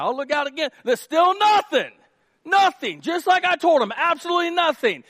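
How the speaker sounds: high and loud, exasperated; hammed-up frustrated servant yelling; frustrated rant. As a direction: yell it out in disgust at the empty sky. Frustrated Frank ranting on top.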